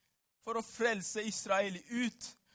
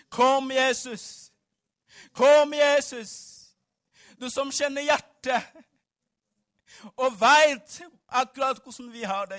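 calling out in prayer; 3 semitones higher, 10 dB louder than usual. Acted. Preacher calling on Jesus to come, loud impassioned prayer. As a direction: cry out to heaven at full voice.

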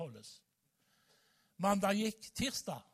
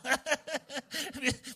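a bright burst of laughter, higher and louder; 8 semitones higher, 5 dB louder than usual. Real, not acted. Preacher laughing at his own joke about God, real laugh.

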